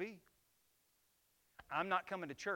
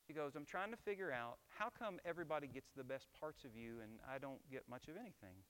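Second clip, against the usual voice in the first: softer, gentle question from the wife; gentle, not accusing; 6 dB quieter than usual. Retold or imitated. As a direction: ask it tenderly, no blame. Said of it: "she wasn't accusing".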